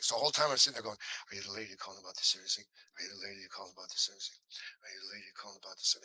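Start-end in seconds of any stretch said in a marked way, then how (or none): 1.3-6.0 fast, softer mumbled run-through of the line; muttered rehearsal. Retold or imitated. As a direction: drill it over and over under your breath, quick and mechanical. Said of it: "and it doesn't sound right".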